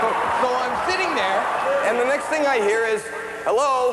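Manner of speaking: high cartoon kid voice telling a story; squeaky storyteller voice for the whole bit; Bobby voice. Stand-up clip, high voiced.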